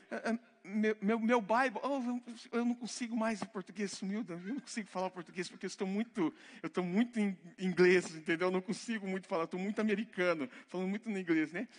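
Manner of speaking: laughing, hammed-up Brazilian who thinks he forgot his Portuguese; mock Americanized Brazilian. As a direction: tease the show-off expat, half laughing. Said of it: "Tem alguns que já, três meses aqui".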